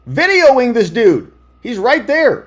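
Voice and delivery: loud, high-pitched disbelief; incredulous outburst. Real, not acted. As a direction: point it out loudly, stunned nobody acted. Incredulous commentary on shooter video.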